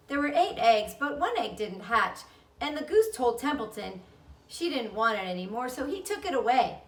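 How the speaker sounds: put-on a child bursting with news; bright chatty girl. Girl tells her parents at breakfast, loud and eager. Fern explains the goslings.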